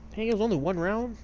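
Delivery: high, startled question at the screen; real surprise, voice jumps up; surprised outburst. Real, not acted. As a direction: caught off guard by the game. Game round ends unexpectedly.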